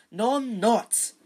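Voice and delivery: loud, high, slow denial; angry. A narrator's reading. Boy denying a bully's taunt, angry. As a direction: protest hotly. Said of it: "said Harry angrily".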